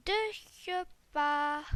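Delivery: put-on slow little babyish voice. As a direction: say it like a tiny baby. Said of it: "J'ai fait la petite voix de bébé".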